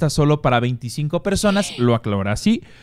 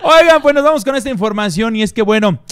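excited; 10 semitones higher, 7 dB louder than usual. Real, not acted. Hosts react to juicy gossip.

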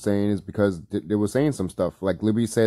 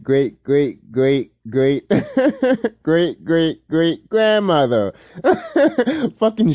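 laughing; 7 semitones higher, 3 dB louder, much slower than usual. Real, not acted. Laughing through long list.

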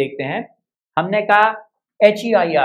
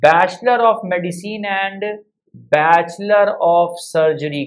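slow careful reading; much slower than usual. Shown as a demonstration. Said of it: "that is".

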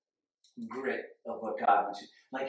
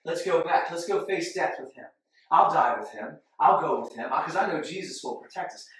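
bold; 4 dB louder than usual. Retold or imitated. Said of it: "It was Thomas that said".

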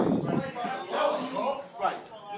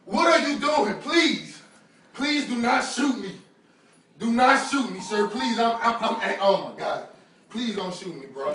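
scared pleading. Real, not acted. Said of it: "I'm fucking scared right now".

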